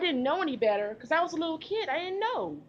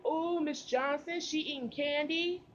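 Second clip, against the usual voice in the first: slow, drawn-out tattletale whine; lightly voiced snitching kid; tattling classmate; 2 semitones higher, 3 dB quieter, slower than usual. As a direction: drag it out like a kid telling on a friend.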